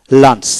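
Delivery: "লাঞ্চ" said alone with a short a vowel; pronunciation demo. Shown as a demonstration. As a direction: model "লাঞ্চ" as one separate word, u sounded as a. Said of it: "এর উচ্চারণটা হবে".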